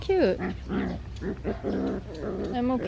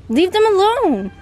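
higher and louder repeat; louder command; 7 semitones higher, 5 dB louder than usual. Real, not acted. Owner repeating the command louder at the dog. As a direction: raise it the second time.

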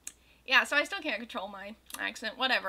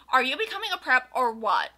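angry; 5 dB louder than usual. Acted. Goth girl accusing Draco of being a prep, angry. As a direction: demand it in hammy anger. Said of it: "I shooted angrily".

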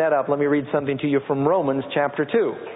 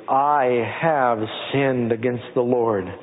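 slow, plain, humbled admission; simple confession; 4 semitones lower, much slower than usual. Retold or imitated. David confessing to Nathan, slow and simple. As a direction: speak it slowly and simply. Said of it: "David says very simply".

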